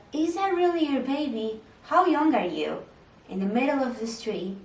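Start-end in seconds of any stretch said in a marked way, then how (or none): 0.1-2.8 higher and louder mock disbelief; nosy strangers. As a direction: imitate judgmental people on the street.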